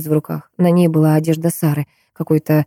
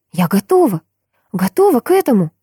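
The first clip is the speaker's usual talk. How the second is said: high, raised cry of readiness; shouting; 6 semitones higher than usual. A narrator's reading. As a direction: cry it out at him. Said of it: "закричала она".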